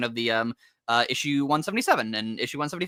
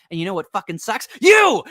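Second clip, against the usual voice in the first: hammed-up schoolyard insult, bursting out at the end; mock punchline shout; 6 semitones higher, 8 dB louder than usual. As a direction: build up and then yell "You!" much higher and louder. Sonic's punchline insult, retold.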